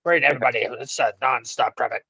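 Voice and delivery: mock radio traffic report; low, joking announcer patter; radio guy. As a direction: parody a radio host rattling off traffic. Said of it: "like the best fucking radio fucking guy ever".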